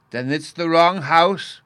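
put-on high, slow, loud child's question; young Bruno. A narrator's reading. Bruno questions the professor at the door, in a high child's voice. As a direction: ask like a small boy, drawn out and rising. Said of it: "Bruno was saying".

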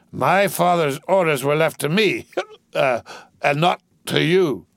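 put-on drunkenly haughty. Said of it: "drew himself up to a stately height".

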